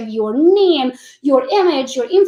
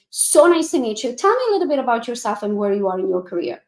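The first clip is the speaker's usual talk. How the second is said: relaxed laid-back greeting. Pretend. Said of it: "I would probably lean back".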